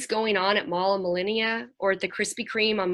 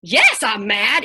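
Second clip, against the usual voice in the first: mock angry kid; 8 dB louder, slower than usual. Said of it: "be like".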